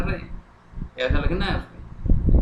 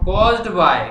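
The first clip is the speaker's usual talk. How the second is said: slow dictation; 3 semitones higher, 5 dB louder than usual. Shown as a demonstration. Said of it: "अब मैं लिखना शुरू कर रहा हूँ".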